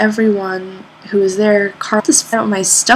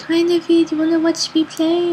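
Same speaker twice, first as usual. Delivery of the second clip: bright greeting; 10 semitones higher than usual. Retold or imitated. Greeting Naveed before performing.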